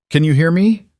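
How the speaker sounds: high, loud desperate plea. Acted. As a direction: plead with him to answer. Pleading with dying Ronan.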